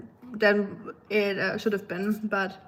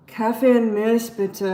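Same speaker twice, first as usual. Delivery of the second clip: louder, lightly sassy app voice; sassy teenager; 6 dB louder than usual. Retold or imitated. Mimicking a sassy Duolingo character, louder and lightly sassy. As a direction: lightly play a sassy teen ordering coffee. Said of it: "a sassy teenager or something".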